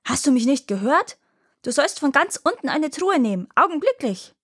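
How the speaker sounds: high, rising furious royal bellow; roaring tyrant king. Acted. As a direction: roar the command at the carpenter. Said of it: "hörte er den König noch einmal brüllen".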